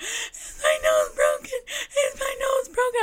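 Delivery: very high, panicked, freaking-out sobbing. Retelling getting hit in the nose, the speaker quotes their past self asking their sister: imitating crying, freaking out. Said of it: "I'm like crying, I'm freaking out".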